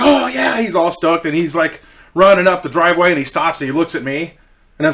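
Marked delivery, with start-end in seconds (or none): 0.0-0.6 put-on higher, eager little-kid cheer; a kid spotting free candy, thrilled; kid excited.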